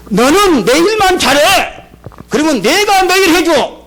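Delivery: preacher booming God's promise; proclaiming shout. Retold or imitated. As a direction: proclaim it with full force.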